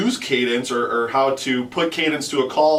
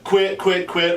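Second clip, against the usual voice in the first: call cadence syllables; 3 semitones higher, slower than usual. Shown as a demonstration. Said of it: "that's the progression of the cadence".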